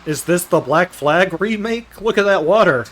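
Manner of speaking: pirate. Acted. Pirate voice for Black Flag joke.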